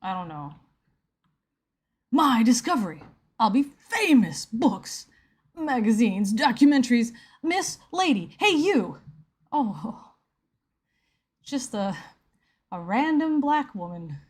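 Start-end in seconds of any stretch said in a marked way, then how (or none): 2.1-9.0 lightly voiced excitable movie scientist; a hint of eccentric inventor, calling out; touch of mad-scientist proclamation; Back to the Future doc. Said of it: "How do I sound like".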